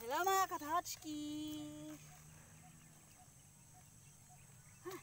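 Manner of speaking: panting between words; breathless after the ride; out of breath. Real, not acted. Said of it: "pati ako hinihingal".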